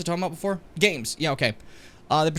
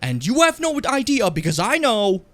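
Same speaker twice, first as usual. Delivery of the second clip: mocking Asmongold; 6 semitones higher, 4 dB louder than usual. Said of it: "it's called Asmongold".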